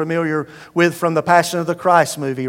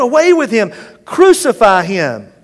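higher, louder yell, slowing at the end; yelling crowd; 4 semitones higher, 6 dB louder than usual. Acted. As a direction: drag out the final demand. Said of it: "they yelled".

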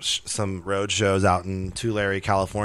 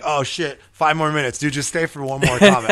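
anxious plea; 5 semitones higher, 3 dB louder than usual. Retold or imitated. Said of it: "you're like".

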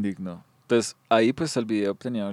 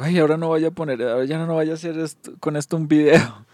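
higher-pitched mock motherly protest; retold motherly warning, pitched up; imitating his mother; 6 semitones higher than usual. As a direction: do mom's scolding in a raised pitch. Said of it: "misma me dijo".

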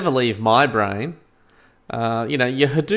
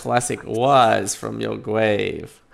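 slowed, lightly lisped quote; mock the lisping arcade god; lisping game voice; 2 semitones lower than usual. Host jokes about the lisping game voice. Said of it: "why the gods have lisps".

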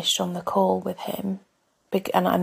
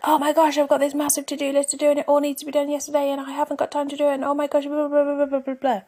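high, fast, frantic gabble; mock panic; 7 semitones higher, 3 dB louder, faster than usual. Acting out her overwhelm at the to-do list, mock panic. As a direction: rush it breathlessly high, running into babble.

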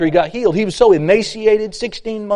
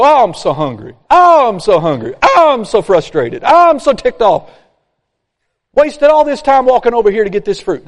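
mock complaining; 3 semitones higher than usual. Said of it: "Jesus didn't stand there at the tree".

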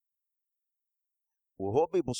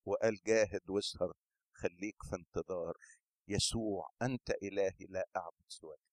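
tender hymn-like confession; 2 semitones lower than usual. Retold or imitated. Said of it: "مش هيتكسف يقول".

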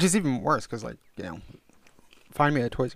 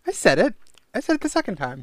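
indignant protest; 8 semitones higher, 6 dB louder than usual. Real, not acted. Insists she said it.

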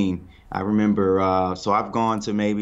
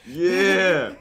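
excited shout; 10 semitones higher than usual. Real, not acted. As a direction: shout it back, pumped up. Big hype cheer back.

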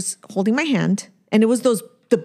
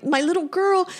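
imitated tearful high plea; high mock wail, without real sobs; crying plea; 10 semitones higher than usual. Mother retelling her dream to a friend, imitated crying. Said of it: "I'm crying and I'm like".

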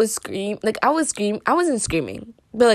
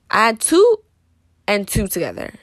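exasperated outburst; 4 dB louder than usual. Real, not acted. Vlogger scolding friends who took it seriously, exasperated outburst. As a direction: hammer it at the friends.

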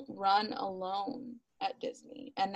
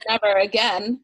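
louder, firm never again; emphatic vow; 11 dB louder than usual. Retold or imitated. Runner after the race, vowing never again. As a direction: swear it off for good. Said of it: "I said".

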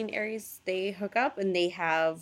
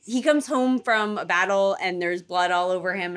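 ordinary delivery

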